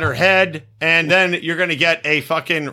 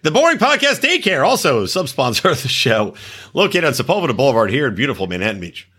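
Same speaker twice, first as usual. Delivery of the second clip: mock sponsor read. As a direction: rattle off a fake local sponsor plug.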